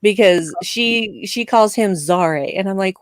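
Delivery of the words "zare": "Zare" in a mimicked odd accent; weird accent. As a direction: copy her strange accent on "Zare". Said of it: "you're doing the weird accent thing again".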